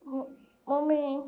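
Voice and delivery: tearful pleading sobs to mommy; crying. Acted. Girl left in charge crying for mommy to come home, tearful.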